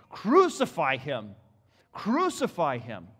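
loud, slow shouted demand; crowd cry. A narrator's reading. Preacher voicing priests crying for crucifixion, slow loud shout. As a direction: chant it like a furious mob. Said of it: "they cried out".

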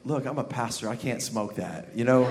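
low, very soft aside; hushed refusal. Acted. Pastor refusing the dentist's offer, hushed and low. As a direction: murmur it low and confidential.

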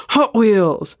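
sudden loud burst of recall; excited. Acted. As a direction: blurt it out, thrilled. Drunk brother suddenly remembers toys.

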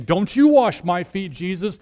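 a touch of Peter's stubborn protest. Acted. Peter refusing to let Jesus wash his feet. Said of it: "that's Peter saying".

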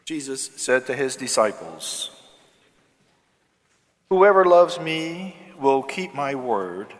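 distant reverberant voice in a big church; cathedral echo. Real, not acted. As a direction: proclaim it into a cavernous hall. Priest proclaims gospel in church.

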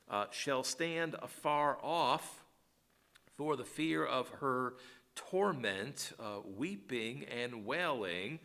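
slow, lamenting King James reading; solemn scripture reading. Acted. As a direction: draw out the weeping and the alas. Reads scripture aloud.

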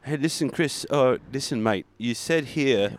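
lightly put-on mogul voice, chummy accent; a hint of an imitated accent; Elon Musk. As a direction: play a matey caller making his case. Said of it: "he just heard you say".

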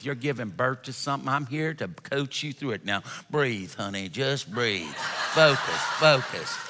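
lightly voiced southern coach soothing her; a hint of a Texan woman cooing breathe; Texas birthing coach. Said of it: "this is how she sounded".

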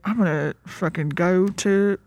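half-hearted attempt at a drawled accent; McConaughey accent. Retelling the movie as McConaughey's character, half-hearted accent. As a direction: try a McConaughey accent, faltering. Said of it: "I can't do this accent".

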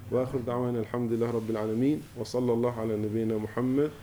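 quick, fluent Arabic dua recitation; rapid devotional recitation; recited prayer. Real, not acted. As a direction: recite the closing supplication fast and steady.

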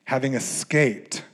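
measured, paused Bible reading; scripture reading. Acted. Reads scripture aloud.

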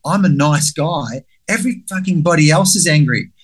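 high mock shout of denial, rising to a yell; indignant self-parody. To his friends, mocking his past self in a high denial shout. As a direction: ham up the wounded nice guy, shouting that everyone else is angry. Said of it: "And my version of that is".

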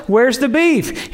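drawn out, every word landed; hammed-up request for meat; slow punchline. Jesus asking for meat.

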